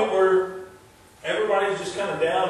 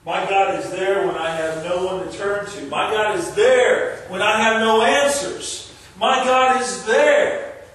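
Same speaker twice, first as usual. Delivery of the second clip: building climax. Real, not acted. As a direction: rise to a slow, drawn-out peak.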